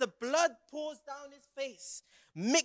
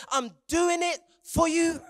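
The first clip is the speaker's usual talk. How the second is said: impassioned declaration; 5 semitones higher, 3 dB louder than usual. Acted. Jesus declares sacrifice to sinners.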